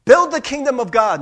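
high, loud commanding call; mock command. Preacher voicing the big project handed to believers, loud command. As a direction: bark it like a huge order.

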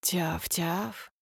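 soft little puppy yaps; silly dumb pet voice. Acted. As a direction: yap quietly like a lapdog. Mocking dog yapping.

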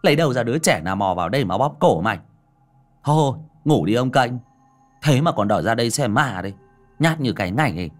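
brisk mocking tease. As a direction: scoff at the scared friend. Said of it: "giọng nhạo báng".

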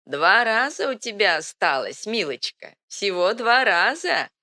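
put-on high, creaky old woman's voice; creaky old crone. A narrator's reading. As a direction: croak it out like an ancient hag. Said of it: "старуха вдруг затрясла головой и проскрипела".

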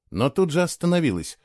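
ordinary delivery

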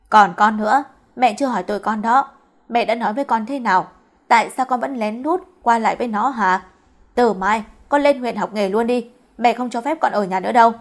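acted mother telling off her son; mildly heated, pressing reprimand; angry scolding. Mother turns on her son for defending the girl, angry scolding. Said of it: "chỉ thẳng tay chửi luôn cả Trọng".

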